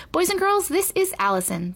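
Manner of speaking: teacher addressing the class; announcing. A narrator's reading. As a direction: introduce a new pupil, starting high. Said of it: "the teacher announced to her students".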